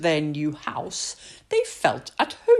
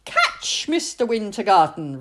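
calling out; 3 semitones higher, 4 dB louder than usual. Acted. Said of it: "Rose called".

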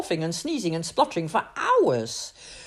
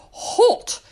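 laughing question; 14 semitones higher, 7 dB louder than usual. A narrator's reading. Princess asks with laugh.

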